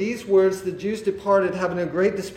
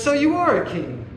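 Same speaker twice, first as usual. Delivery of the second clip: lightly voiced Pilate, pitched higher; questioning Pilate; 7 semitones higher than usual. Preacher voices Pilate questioning Jesus, lightly acted higher-pitched question. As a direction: raise the pitch as a probing question.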